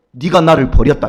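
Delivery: loud, stern divine verdict; booming voice of God. Retold or imitated. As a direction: deliver it as God's judgment. God's verdict quoted, loud. (하나님의 엄한 목소리로 크게)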